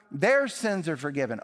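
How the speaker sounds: weight on "Their" in "Their sins are forgiven"; stress on their. Shown as a demonstration. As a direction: lean on "Their" and let the rest fall. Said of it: "How can Jesus say".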